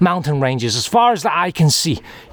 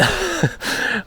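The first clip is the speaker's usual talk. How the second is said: high embarrassed laugh; 6 dB quieter than usual. Real, not acted. Laughs off the compliment.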